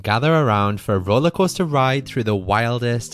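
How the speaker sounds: showman podcast intro read; horror host. Acted. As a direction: announce it like a carnival barker. Podcast intro over music.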